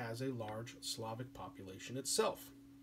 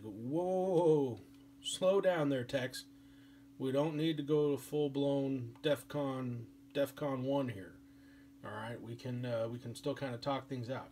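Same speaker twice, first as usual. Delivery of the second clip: calming cowboy talk. Retold or imitated. Europe telling Russia to slow down, folksy and calming. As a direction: talk a hothead down easy. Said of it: "they're like".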